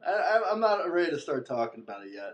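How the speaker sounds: laughing. Pretend. Mock trauma joke, laughing.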